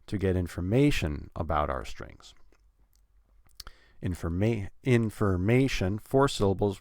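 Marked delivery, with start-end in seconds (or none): 0.1-2.3 "information" stressed on MA, the rest falling away. Shown as a demonstration. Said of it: "put stress on the word information". 4.8-6.0 "information" slowed, weight on MA; third-syllable stress. Shown as a demonstration. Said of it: "the third syllable".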